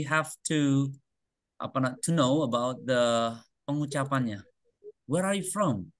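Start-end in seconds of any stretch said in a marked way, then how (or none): 5.1-5.9 "Where are you from?" high, then gliding down on "from"; sloping intonation. Shown as a demonstration. Teacher models pronunciation for students, "Where are you from?" with a sloping fall. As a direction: let "Where are you from?" slope gently downward at the end. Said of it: "Dia agak me-, melandai".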